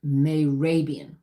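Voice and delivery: "Mehrabian" slowed down, said as may-RAY-bee-an with a falling end; careful name pronunciation. Shown as a demonstration. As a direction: say "Mehrabian" slowly and deliberately. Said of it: "may have pronounced that wrong".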